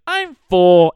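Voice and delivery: loud, hammed-up outburst; retold shout. Sketch character refusing his giant plate, mock shout.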